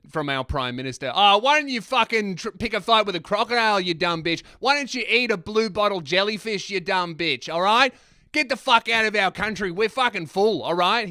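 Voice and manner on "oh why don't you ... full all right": Pauline Hanson. Acted. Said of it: "He turned into Pauline Hanson for a microsecond".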